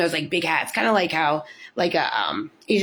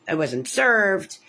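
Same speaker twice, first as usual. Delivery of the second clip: slowed down, each word spaced out; slow emphasis; much slower than usual. Real, not acted. Repeating she wasn't served, slow and firm. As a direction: lean on it slowly, voiced.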